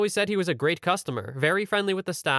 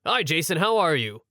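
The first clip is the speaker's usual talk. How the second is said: enthusiastic greeting. Retold or imitated. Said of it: "enthusiastically replied".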